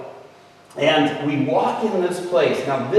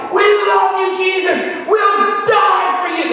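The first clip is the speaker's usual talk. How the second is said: high, loud, ecstatic cheering; retold shout of praise; 4 dB louder than usual. Kids dancing down the aisle, screaming praise: loud high shout. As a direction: shout your love for Jesus to the rafters. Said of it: "They're just screaming out".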